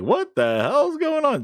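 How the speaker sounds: mock bewildered crowd. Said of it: "Everybody's like".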